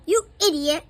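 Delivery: angry yell at the professor. Acted. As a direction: snap it out loud. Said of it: "yells Terry".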